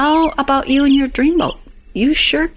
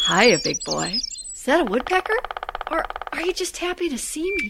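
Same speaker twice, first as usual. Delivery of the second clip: gangster's moll; 6 dB quieter, faster than usual. Acted. Vamping at the man.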